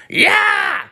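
very high screeched imitation of a mother; mom yelling. Mom on the deck calling her kid back, high slow yell. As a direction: mimic a mother shouting, drawing out the order. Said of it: "It was his mom yelling at him".

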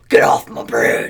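deep, low growl voice; growled warning. Retold or imitated. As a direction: growl it like a monster under the bridge. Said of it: "it's probably more like".

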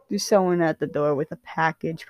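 plain reading voice

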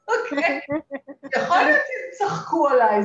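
דיבור מתוך צחוק; צוחקת בקול, גבוה ורם. Real, not acted. Laughs at her students' reaction. (מספרת בצחוק)

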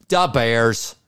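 lightly put-on Chicago accent. Shown as a demonstration. Host showing sister how Chicagoans talk, mock Chicago accent. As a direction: imitate a stock Chicago accent. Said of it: "how about in the Chicago accents?".

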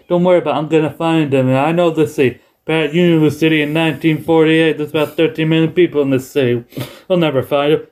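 a light take on Pat Patterson; Pat Patterson impression. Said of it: "I'm doing Vin-, Bruce Pritchard's impression of Pat Patterson".

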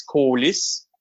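"colis" with a very rounded O. Shown as a demonstration. Showing co-hosts a regional way to say the swear, round O. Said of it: "round O".

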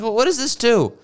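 mock-baffled voice ridiculing the sandals; mocking incredulous. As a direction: sneer it like a baffled snob. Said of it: "I'm like".

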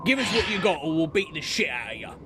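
shouted orc threat, then fast. Acted. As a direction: bark it like a thug orc. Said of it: "orc threatening the party".

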